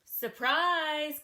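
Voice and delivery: loud call. Acted. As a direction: burst in with a loud shout. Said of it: "called the wolf".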